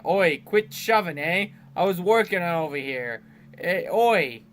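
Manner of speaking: lightly put-on British-type accent; improvised accent. Player reading a game character's "oi" complaint, improvised accent. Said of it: "What was that accent?".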